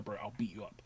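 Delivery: hushed menacing whisper; whispered threat. Retold or imitated. Threatening a friend about his ex, whispered. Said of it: "genuinely, if you invite her".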